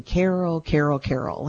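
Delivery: frustrated mother calling. Retold or imitated. Mother calling her daughter Carol in frustration, mildly mock exasperated. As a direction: call Carol's name the way a fed-up mom would. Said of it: "my mother used to do that when she was frustrated".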